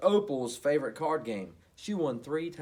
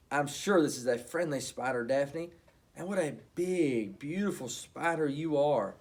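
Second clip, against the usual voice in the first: excited; 4 dB louder than usual. Acted. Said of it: "she said excitedly".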